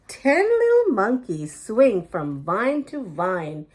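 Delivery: lively picture-book read-aloud with suspense pauses; animated children's story narration with dramatic pauses before each number. A narrator's reading. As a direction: read it like story time for little kids.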